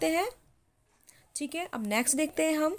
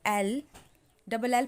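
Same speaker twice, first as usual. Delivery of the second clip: each letter spaced out slowly for writing down; slow letter-by-letter dictation; 2 semitones lower, slower than usual. Shown as a demonstration. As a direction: spell it slowly so students can copy. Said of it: "मैं वो भी लिखवा देती हूँ".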